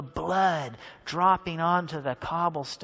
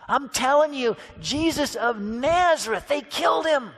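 upset disbelief; 2 semitones higher than usual. Acted. Disciples retelling the crucifixion.

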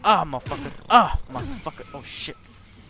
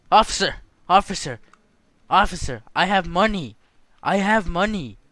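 louder calls for the officer; calling out; 5 dB louder than usual. Real, not acted. Gamer calling the guard, louder calls for help. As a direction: call out to the guard.

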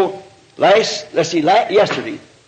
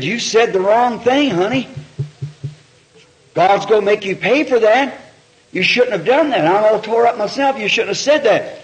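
retold reproach; 5 semitones higher than usual. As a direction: reprove a loved one, pitch raised. Retold rebuke of his crying wife.

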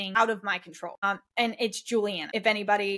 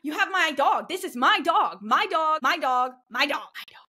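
retold panic; 4 semitones higher than usual. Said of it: "like, panicking".

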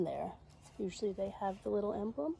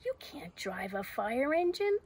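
higher, dismissive scoff; pooh-pooh the idea in a raised voice; little doubting voice; 4 semitones higher than usual. Acted. Little voice mocking Zoe's fire engine dream, dismissive. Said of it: "says the voice".

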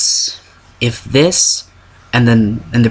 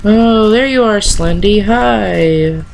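startled greeting; 9 semitones higher, slower than usual. Real, not acted. Spots monster, mock greeting.

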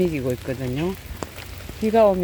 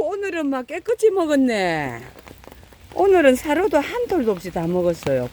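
high sing-song pet talk; cooing to pets; 8 semitones higher than usual. Real, not acted. Feeder praising the cats for eating, high cooing pet talk. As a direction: coo at the hungry cats like babies.

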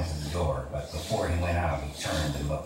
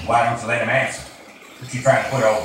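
louder, higher suspicious challenge; boss challenging; 7 semitones higher, 7 dB louder, faster than usual. Acted. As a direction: corner him with the question. Boss suspicious, turning on George.

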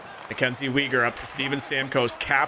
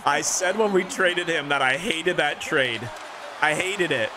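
slow, raised complaint about the trade; 4 semitones higher than usual. Real, not acted. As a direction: stress I hated that trade. Venting about the old trade.

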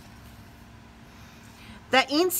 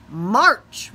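roared; 7 dB louder than usual. Acted. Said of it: "roared the leader".

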